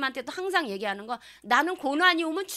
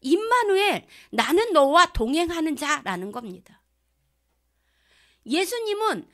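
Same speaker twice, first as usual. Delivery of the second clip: proclaiming; 3 semitones higher, 5 dB louder than usual. Real, not acted. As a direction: ring out 임마누엘 like a call. Proclaiming Immanuel. (힘차게 선포하듯)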